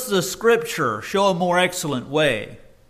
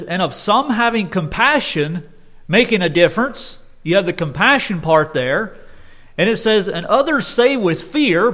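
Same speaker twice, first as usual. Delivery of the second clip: fervent scripture reading; 2 semitones higher, 3 dB louder than usual. Acted. Reading Jude with fervour.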